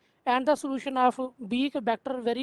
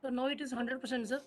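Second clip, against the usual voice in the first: barely audible; 8 dB quieter than usual. Real, not acted. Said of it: "volume is very low".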